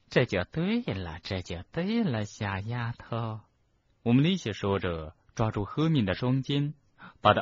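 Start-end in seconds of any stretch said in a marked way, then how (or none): 0.1-3.4 slow, lilting condescension; coaxing professor. Acted. Professor approving a pupil's surrender, coaxing. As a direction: coax the girl, trailing off softly. Umbridge coaxes Hermione.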